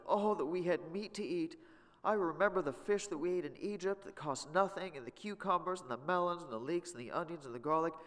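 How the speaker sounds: high, whining complaint about food; whiny Israelites. Acted. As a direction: whine like the hungry Israelites. Israelites' complaint voiced in scripture reading.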